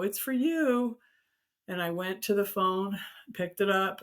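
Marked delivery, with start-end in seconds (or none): 0.0-1.0 higher voice, calling out; imitated call. Mom calling her to the phone, imitated call. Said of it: "I heard my mom go".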